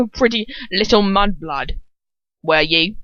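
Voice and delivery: put-on lightly slurred drunken taunt; mild slur. Shown as a demonstration. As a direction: slur the words a little, drunkenly. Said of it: "I have to get it right".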